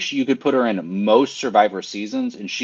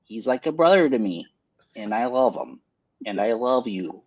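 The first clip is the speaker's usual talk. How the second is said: put-on light Upper Michigan Yooper accent, folksy; a hint of a Yooper accent, hammed up. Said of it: "but in the accent".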